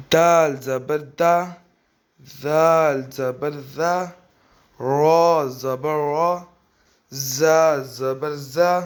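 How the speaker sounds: slow, sing-song syllable drill with a rise on each; measured Qaida recitation. Shown as a demonstration. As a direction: recite each letter slowly for pupils to copy.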